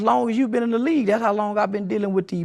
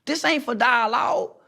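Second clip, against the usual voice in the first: raised, insistent repeat of the point; emphatic shout; 4 semitones higher than usual. Real, not acted. Youth advocate pushing back at the host, shouting. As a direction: hammer the point home, voice up. Repeats the line, louder the second time.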